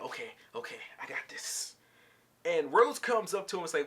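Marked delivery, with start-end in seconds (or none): 0.0-1.7 low, hushed pep talk; soft, under-the-breath self-assurance; retold self pep talk. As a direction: quietly psych yourself up, imitating someone getting ready. Retold nervous pep talk to himself.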